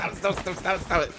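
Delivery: high laughing squeal, stop stop; being tickled. Acted. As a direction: giggle and squeal under tickling.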